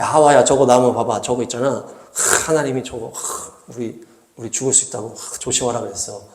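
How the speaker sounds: Adam warning Eve in a timid hush; soft worried warning. Acted. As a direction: hedge it like a nervous husband. Adam's weak retelling to Eve.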